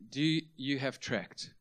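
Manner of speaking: slow, halting imitation of broken Korean English. Korean evangelist to a man at the door, broken English. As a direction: ask word by word as a Korean beginner in English. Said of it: "his one broken English sentence".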